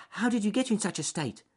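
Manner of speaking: high, squeaky rabbit voice; concerned rabbit. A narrator's reading. Rabbit asking lame duck about his state, high and concerned. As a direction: ask it high, as a small worried animal.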